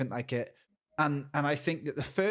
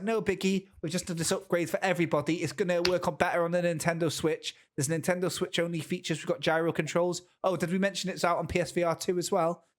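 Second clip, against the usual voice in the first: casual developer voice; 4 semitones higher than usual. Retold or imitated. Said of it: "No Man's Sky were just like".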